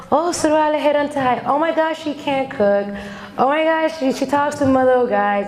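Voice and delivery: high-pitched mock scandalized gossip; gossiping relatives. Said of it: "the gossiping started".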